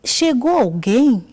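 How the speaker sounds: projected, stretched-out question; calling out loudly. Retold or imitated. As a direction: call out high, loud and slow.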